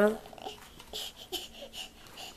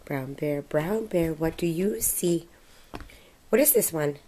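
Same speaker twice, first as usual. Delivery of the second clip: put-on reading to a toddler. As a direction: read it like a bedtime picture book. Reads picture book aloud.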